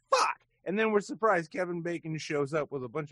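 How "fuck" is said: loud, high burst of frustration; sudden angry shout; exasperated yell. Real, not acted. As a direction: explode on the curse mid-rant. Ranting about local acting industry.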